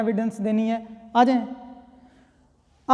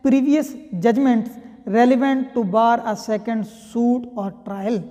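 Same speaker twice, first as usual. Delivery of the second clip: slow statute reading; much slower than usual. Shown as a demonstration. Reads statute heading slowly.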